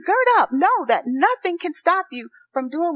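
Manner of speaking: rally the church with it; rousing call. Acted. Preacher exhorting congregation.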